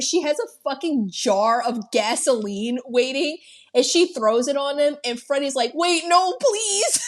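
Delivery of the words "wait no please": much higher, frightened begging; hammed-up terrified plea of a villain about to burn; scared pleading. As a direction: plead for your life, mockingly. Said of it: "genuinely scared".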